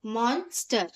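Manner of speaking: "मॉन्स्टर" broken after मॉन; split into syllables. Shown as a demonstration. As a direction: say मॉन्स्टर in two parts, मॉन, स्टर. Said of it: "divide करेंगे".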